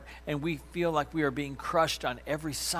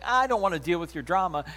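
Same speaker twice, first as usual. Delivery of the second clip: dismissive brush-off; 4 semitones higher, 6 dB louder, faster than usual. Retold or imitated. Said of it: "someone's like".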